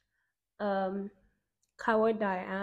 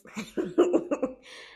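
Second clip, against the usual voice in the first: amused laugh; 3 semitones higher, 4 dB louder than usual. Real, not acted. Laughs after saying she loves it.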